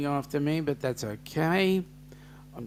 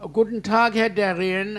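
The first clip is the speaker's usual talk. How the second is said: put-on German accent; 5 semitones higher, 5 dB louder than usual. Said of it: "how was that for my German?".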